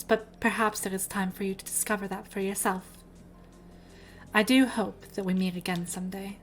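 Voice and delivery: a hint of a grand, formal gym leader. Keeps voicing the gym leader.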